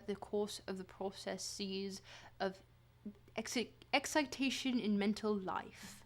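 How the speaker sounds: measured text reading; reading aloud. Acted. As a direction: read it like a dry lecture. Reads Freud text aloud.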